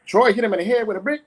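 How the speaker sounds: put-on high, fast little-girl voice; little sister tells mama who threw the brick, high and fast; tattling little sister. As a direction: blurt it out like a small girl telling. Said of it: "Baby sister says".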